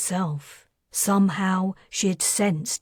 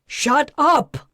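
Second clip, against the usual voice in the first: higher, loud raging order; shaking the child and yelling; furious shout; 7 semitones higher, 5 dB louder than usual. Acted. Father shakes child.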